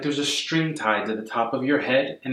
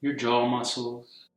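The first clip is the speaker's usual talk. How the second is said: calm, unhurried meditation guidance; guided meditation. Real, not acted. Yoga teacher guiding a class to soften and breathe, calm meditation voice. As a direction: ease them gently into stillness, phrase by phrase.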